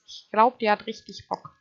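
deutlich lauter, begeistert. Real, not acted. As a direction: ruf es übertrieben begeistert. Übertriebene Wiederholung. (lauter, begeisterter Ausruf)

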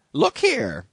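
high, loud stern landlady. A narrator's reading. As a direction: bark it like a stern innkeeper.

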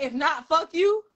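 incredulous quoting. Retold or imitated. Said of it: "Did you say".

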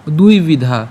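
"দুই বিধা" slow, with a clear u-i glide in দুই; pronunciation demo. Shown as a demonstration. Teacher introduces the next words, slow demo of "দুই বিধা". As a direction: stretch "দুই বিধা" out word by word. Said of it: "এর উচ্চারণটা কার মতো হবে".

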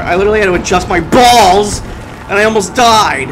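loud frustrated gamer rant; panicking gamer. Real, not acted. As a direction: vent loudly about almost dying. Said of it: "Gamer rage needs to be turned down".

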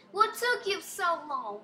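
slow, high-pitched mock British; attempted British accent. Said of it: "I'm trying to go British".

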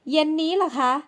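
a startled high "this evening?". Acted. Young woman caught out by a caller's visit, high startled voice. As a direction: voice jumps up, caught off guard. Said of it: "หญิงสาวเสียงสูง".

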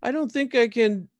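high-pitched character voice; Lulu. Acted. Lulu worries about hitting Jerry, high character voice. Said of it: "She goes".

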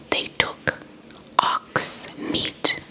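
ordinary delivery, nothing marked

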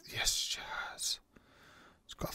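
breathy whisper, very soft; whispered yes. Real, not acted. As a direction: hush it under the breath like a secret find. Checking shop, quietly excited.

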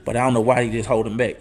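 lightly voiced God, wondering to himself; God puzzled. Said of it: "And God just sitting there listening to you like".

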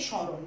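স্মরণ said as শঁরণ, the ম silent and the স nasalised; nasal স্মরণ. Shown as a demonstration. Teacher showing pupils how to say স্মরণ, nasal স. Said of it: "আনুনাসিক করে উচ্চারণ করছি স্মরণ".

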